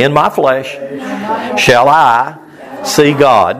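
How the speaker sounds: phrase by phrase, with pauses; call for repetition. Shown as a demonstration. Preacher has everybody say the verse after him, broken into phrases. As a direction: lead a group recitation in short, separated chunks. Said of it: "Let's everybody say that. Say".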